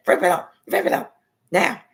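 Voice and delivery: loud repeated order ending on now; angry mom command. Retold or imitated. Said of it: "she acted just like that".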